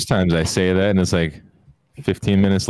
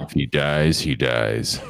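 deadpan Russian; 4 semitones lower, much slower than usual. Pretend. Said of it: "their language scares you".

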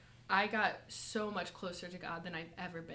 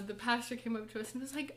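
ordinary talk, nothing marked

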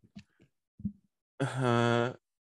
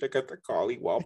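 laughing; faster than usual. Acted. Laughing nervous line.

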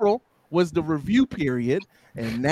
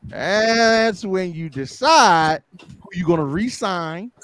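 laughing; 5 semitones higher, 5 dB louder than usual. Real, not acted. Laughing through the line.

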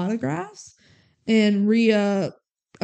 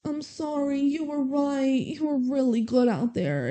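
higher, softer imitation of apologizing; mock tender apology; 5 semitones higher, 3 dB quieter than usual. Movie villain apologizes to heroine at the end, mock tender. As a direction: gently act out a movie make-up. Imagined sappy rom-com apology.

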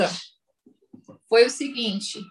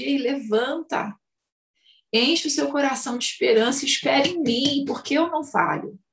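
tender reassurance. Acted. Voicing God speaking to listener.

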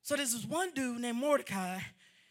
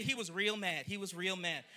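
congregation call-back; 8 semitones lower, 7 dB quieter than usual. Shown as a demonstration. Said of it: "Look at somebody say".

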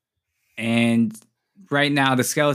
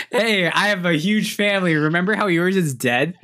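higher-pitched teasing imitation; mock boasting; 5 semitones higher than usual. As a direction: rub it in with mock cheer. Mocking imitation of boastful player.

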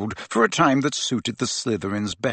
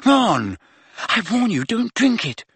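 high, urgent warning; alarmed; 10 semitones higher than usual. A narrator's reading. Hermione warns Ron again about the glass, alarmed. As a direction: warn him in alarm, pitched up.

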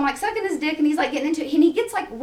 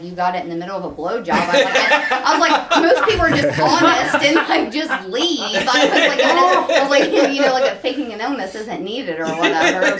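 louder, laughing scolding quote; laughing mock scolding; 3 dB louder than usual. Retelling what she told him, laughing. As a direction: scold him through giggles.

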